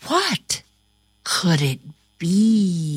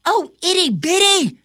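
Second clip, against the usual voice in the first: put-on girl voice; 10 semitones higher, 3 dB louder, faster than usual. A narrator's reading. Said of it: "says Ava".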